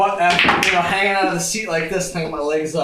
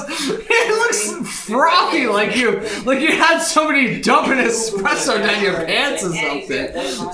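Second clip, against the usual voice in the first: lightly voiced wife; 4 semitones higher than usual. Wife describing husband's mess, lightly voiced. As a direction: mildly mimic the wife's disgust. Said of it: "she goes".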